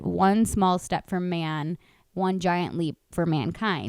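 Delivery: slow, measured famous quote; drawn-out astronaut recital. Retold or imitated. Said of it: "he famously said".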